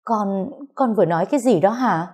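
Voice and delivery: stunned mother can't believe her ears; shocked disbelief. Acted. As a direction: pitch rises in open-mouthed shock. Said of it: "há hốc mồm ngạc nhiên nói".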